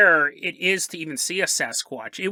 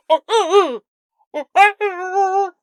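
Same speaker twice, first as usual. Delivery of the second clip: high loud slow calling grunts; bigfoot grunting; 11 semitones higher, 6 dB louder, slower than usual. Acted. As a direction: call out into the forest as Bigfoot. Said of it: "super irritating Bigfoot voice".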